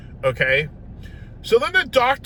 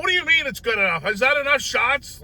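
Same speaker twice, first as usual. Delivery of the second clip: high, fast, indignant questioning; incredulous protest; 8 semitones higher than usual. Retold or imitated. Patient questioning doctor's good enough, incredulous high protest. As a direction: fire back in high-pitched disbelief.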